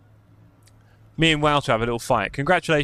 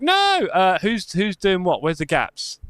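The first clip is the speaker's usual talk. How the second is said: retold panic; 2 semitones higher, slower than usual. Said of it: "I was like".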